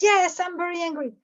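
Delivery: mildly irate acted confirmation; angry client. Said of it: "If angry client called you".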